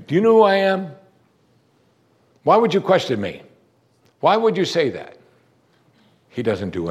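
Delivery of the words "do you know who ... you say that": higher, louder hammed-up offended demands; mock indignant questioning, pitched high; indignant rebuke. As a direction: play a mock affronted Lord challenging her. Imagined Jesus rebuking Martha.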